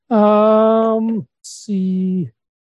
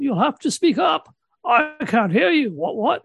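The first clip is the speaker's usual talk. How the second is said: put-on high, calling out deaf old man; 4 semitones higher than usual. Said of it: "I'll say every so often".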